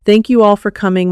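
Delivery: crisp, amplified. Acted. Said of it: "crisp and amplified through the sound system".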